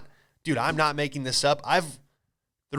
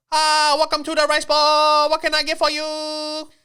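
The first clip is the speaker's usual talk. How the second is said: very high, loud fake Asian accent; mock Asian accent; 13 semitones higher, 8 dB louder than usual. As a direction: greet diners in a hammed-up Asian accent. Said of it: "if I could do an Asian accent".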